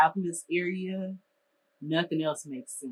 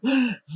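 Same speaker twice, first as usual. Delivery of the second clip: sharp gasping breath in, imitated; hyperventilating gasp; 8 semitones higher, 5 dB louder than usual. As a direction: mimic gasping for air. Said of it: "I'll get to hyperventilating".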